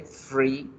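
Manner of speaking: "free" starting with F; F sound. Shown as a demonstration. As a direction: say FREE with an F instead of th. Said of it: "que alcance a sonar como una F". ("free" con F inicial)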